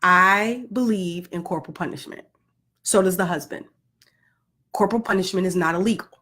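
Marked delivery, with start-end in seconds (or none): 2.8-3.7 whisper. Acted. Whispered aside.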